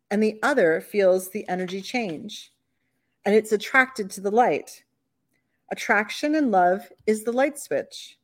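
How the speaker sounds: gentle, measured poem reading; nervously reading love poem. Shown as a demonstration. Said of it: "I need to read you my poem".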